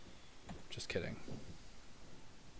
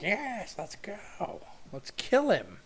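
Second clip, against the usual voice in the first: much higher, louder, slow hammed-up screech; voiced character battle cry; 10 semitones higher, 7 dB louder, much slower than usual. Streamer voices his animated figure screaming to kill the dwarf. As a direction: shriek like a bloodthirsty cartoon goblin. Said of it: "He's like".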